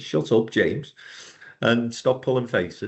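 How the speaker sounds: plain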